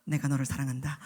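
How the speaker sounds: low whispered divine reply; voice of God. Acted. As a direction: answer gently as God. (하나님의 낮은 속삭임)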